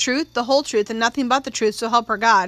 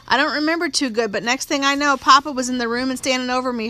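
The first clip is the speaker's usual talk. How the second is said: slightly raised, insistent country testimony; lightly voiced country-girl witness. Young witness telling the court of an attack, insistent country girl. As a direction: lightly act a witness pouring out her story.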